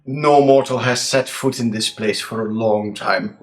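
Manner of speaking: slow, hushed scene setting; game master narration. A narrator's reading. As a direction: set the scene slowly, with suspense. GM describes the dungeon.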